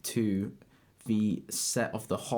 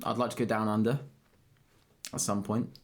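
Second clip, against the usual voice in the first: put-on awful Australian accent. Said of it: "That was an awful accent".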